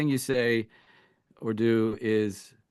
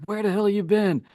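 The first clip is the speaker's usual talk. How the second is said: higher, louder, fast mock shout; imitating an angry yell at his wife; retold angry yell; 9 semitones higher, 5 dB louder, faster than usual. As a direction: play the furious husband demanding answers. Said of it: "and he's yelling, screaming".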